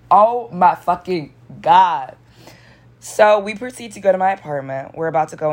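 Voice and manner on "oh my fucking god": slow, drawn-out retold exclamation; drawn-out reaction. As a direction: stretch each word out in mock disbelief. Acted exasperated reaction in story.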